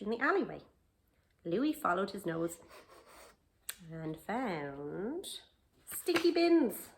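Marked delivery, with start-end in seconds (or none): 5.8-6.9 higher, louder and slow; a high, loud, slow relish of the stink; disgusted delight. A narrator's reading. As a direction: savour the yucky find slowly. Reading the bins discovery.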